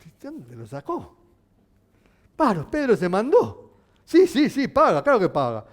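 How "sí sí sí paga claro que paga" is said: eager answer. Acted. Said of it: "respondió Pedro".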